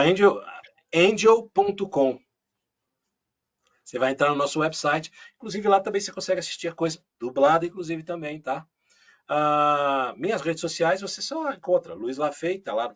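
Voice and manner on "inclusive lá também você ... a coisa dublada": normal talking voice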